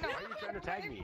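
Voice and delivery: high laughing voice. Pretend. Kid teased about being tagged.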